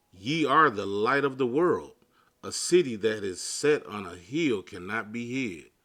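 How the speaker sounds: measured, solemn Bible reading; scripture reading. Real, not acted. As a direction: read the verses like a preacher. Reads Matthew 5:13-14.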